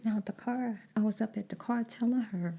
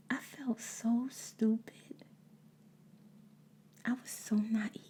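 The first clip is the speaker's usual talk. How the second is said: holding back tears; 4 semitones higher, slower than usual. Real, not acted. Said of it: "I don't wanna cry right now".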